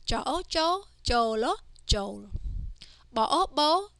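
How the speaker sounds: teacher's sing-song spell-and-read drill. Shown as a demonstration. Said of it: "let's read these words".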